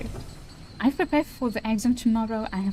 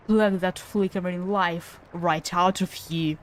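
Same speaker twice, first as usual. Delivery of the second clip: lightly voiced gloating villain, slow; menacing villain. Villain taunting the fallen little spider, lightly menacing. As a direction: savour every cruel word.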